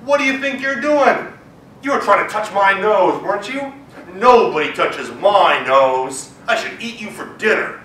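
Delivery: loud, gruff lion scolding; angry lion. Acted. Lion scolds the mouse he caught, loud gruff voice. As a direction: growl it out as the big lion.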